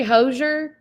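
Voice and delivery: The name as two syllables, HOH-zher; own pronunciation. Shown as a demonstration. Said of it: "I say Hosier".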